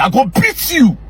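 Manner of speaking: angry threat. Real, not acted. Threatening the critic.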